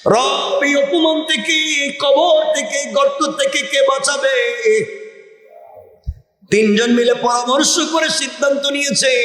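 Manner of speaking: high, chanted plea; melodic preaching. Acted. Trapped men begging their Lord for rescue, chanted pleading. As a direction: intone it high, stretching the line endings.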